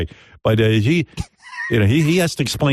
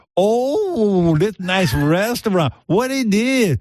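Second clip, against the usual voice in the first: high, slow, puzzled character voice. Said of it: "They go".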